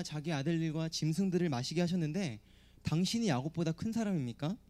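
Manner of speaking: the woman taunts the stranger at the well; sarcastic woman. Acted. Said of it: "다시 한번 비꼬며 말합니다".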